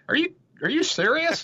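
high, loud mock disbelief; incredulous Germans. Germans gaping at the British tea break, high mock disbelief. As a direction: squeak out a stunned Are you serious. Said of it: "the Germans are like".

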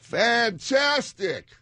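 excited. Real, not acted. Cheering the guess.

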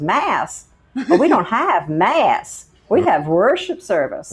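imitating a church lady set straight; snippy pastor's wife. Caller corrected by the pastor's wife, curt and miffed. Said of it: "She goes".

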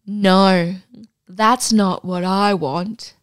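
slow, lightly acted firm refusal; stern quoted man. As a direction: voice the man's refusal, drawn out. Quotes the man within the read story.

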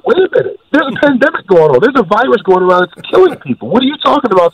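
high, incredulous disbelief; wait, what are you saying. Retold or imitated. Retorts to imagined carefree people.

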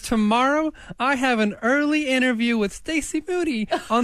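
animated mock diary reading; diary read-aloud. Reads Mad Lib diary aloud.

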